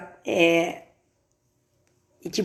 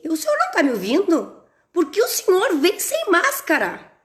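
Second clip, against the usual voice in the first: shouting; 8 semitones higher than usual. Retold or imitated. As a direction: shout at the mask-less courier. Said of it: "E aí eu gritei". (gritando, alto e exasperada)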